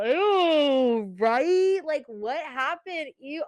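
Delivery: a pretend horrified friend going along; fake disgust. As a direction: overplay being grossed out to cover. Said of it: "And I'm like".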